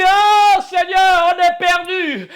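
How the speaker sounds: slow, high, loud plea; desperate cry. Retold or imitated. Apostles in the storm begging the Lord, desperate cry. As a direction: beg in panic. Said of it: "Il crie".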